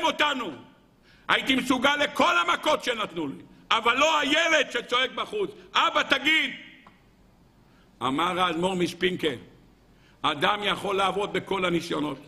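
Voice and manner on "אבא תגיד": put-on higher child's pleading shout; child's plea. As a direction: beg dad to speak up. (ילד מתחנן בצעקה)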